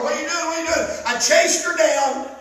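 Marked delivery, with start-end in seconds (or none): 0.0-0.9 higher, urgent mock holler without volume; retold holler. Husband freezing in bed to sleepwalking wife, mock holler. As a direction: imitate a startled husband calling out. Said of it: "and I holler".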